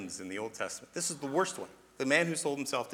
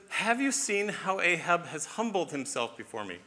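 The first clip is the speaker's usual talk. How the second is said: slow, higher, marveling read; God's excited question, drawn out; 4 semitones higher, slower than usual. Acted. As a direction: read it as God delighted by what he sees. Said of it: "He almost sounds excited".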